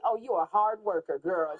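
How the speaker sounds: loud, low admiring man; low mock-admiring voice; imitating an admirer. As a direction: push it low and loud as an impressed suitor. Quotes a man feeling feet.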